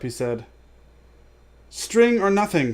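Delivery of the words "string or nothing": high, slow, louder shriek; shrill desperate cry. A narrator's reading. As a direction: shriek the double guess. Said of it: "shrieked Gollum".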